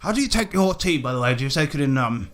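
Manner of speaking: hearty, swearing colonial gent greeting the party; a lightly voiced jolly British explorer; bluff British adventurer. Willie greets the newcomers, a lightly voiced hearty British gent.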